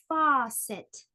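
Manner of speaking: "Faucet" in two beats, first one loud; stretched syllables in "Faucet"; split into syllables. Shown as a demonstration. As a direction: say "Faucet" as fau, cet. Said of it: "divide words into syllables".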